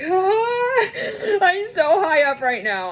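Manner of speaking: high, laughing scream of delight; roller coaster thrill. Pretend. Someone at the top of a roller coaster, laughing high squeal. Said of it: "on the roller coaster and you're like".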